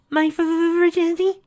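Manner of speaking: put-on high, stammering girl; nervous stutter. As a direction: stumble over the word. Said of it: "she nervously offered".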